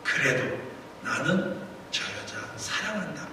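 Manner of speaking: soft, paused, dropping away; God's message relayed. Retold or imitated. Pastor relays God's love to the woman, quiet delivery. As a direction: relay God's words quietly, letting them sink in. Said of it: "하나님께서 내 마음에 감동하시기를".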